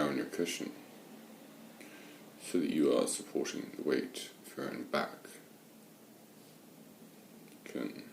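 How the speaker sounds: unhurried meditation guidance with long pauses; guided meditation. Real, not acted. Meditation teacher settling listeners into watching the breath, guided meditation. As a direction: guide listeners gently, leaving space between phrases.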